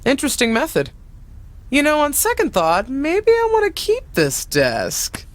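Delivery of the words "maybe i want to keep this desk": mock wistful tease. Retired legend teasing her niece, mock wistful. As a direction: pretend to cling to the old desk. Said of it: "Kidding, kidding".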